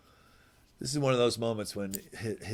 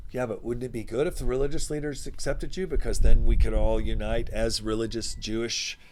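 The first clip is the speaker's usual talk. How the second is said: eager hopeful pitch; 2 semitones higher, 6 dB louder than usual. Retold or imitated. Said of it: "the other side of that".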